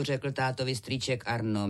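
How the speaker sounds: ordinary delivery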